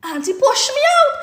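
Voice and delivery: fast, high, exasperated aside; rushed inner plea. Retold or imitated. Nurse silently begging the auntie, fast exasperated plea. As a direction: blurt it under her breath in a rush. Her thought while the auntie argues.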